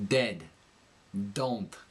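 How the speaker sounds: dentalized D in "Dead. Don't", tongue against the teeth; New York accent, slightly nasal dental D on "Dead". Shown as a demonstration. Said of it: "it kinda leans against the teeth".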